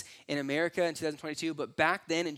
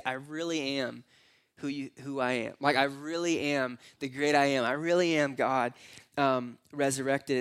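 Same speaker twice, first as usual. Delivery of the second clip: gentle; 2 semitones lower than usual. Retold or imitated. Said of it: "there's this gentleness about it".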